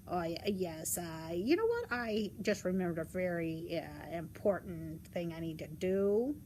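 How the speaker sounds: low, hesitant wolf making excuses; low storybook wolf, hedging; sneaky wolf. Acted. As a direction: stall as the wolf, low and faltering.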